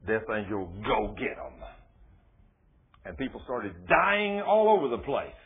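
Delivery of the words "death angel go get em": low, soft, grim command from God. Acted. God ordering the death angel out, low and soft.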